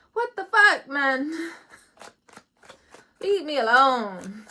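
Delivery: high, loud exasperated outburst; half-laughing what the fuck yell. Pretend. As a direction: throw your hands up and shout.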